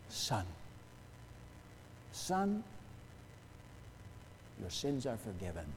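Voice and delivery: soft, gently spaced fatherly words; retold compassion. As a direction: quote it tenderly, letting it settle low. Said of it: "indicates the compassion with which Jesus spoke".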